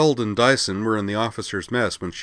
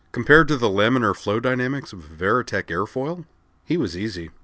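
impish; 3 semitones higher than usual. Acted. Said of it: "Lucy replied impishly".

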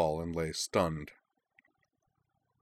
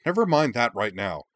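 sharp, higher and louder retort; snapped; 5 semitones higher, 6 dB louder than usual. Acted. Young prince snapping at the adventurer, sharp and loud. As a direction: cut him off hard. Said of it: "the young prince snapped".

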